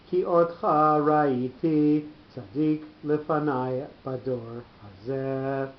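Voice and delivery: slow, drawn-out Hebrew recitation; reading scripture aloud. Shown as a demonstration. Teacher reads the verse aloud to the class, slow formal recitation. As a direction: read the verse out slowly, stretching the words. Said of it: "we're going to read out loud".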